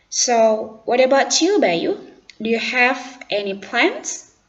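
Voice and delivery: lightly voiced schoolgirl; Santi's voice. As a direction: ask Bayu with interest. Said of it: "Santi kembali merespon".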